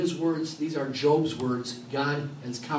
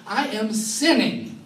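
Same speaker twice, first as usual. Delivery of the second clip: confessing; 7 semitones higher, 5 dB louder, much slower than usual. Retold or imitated. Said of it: "And I said".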